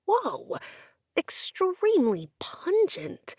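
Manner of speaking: slow unvoiced whisper of disgust; hushed, grossed-out whisper. A narrator's reading. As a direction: breathe it out, repelled by the smell. Narrator reacts to stench.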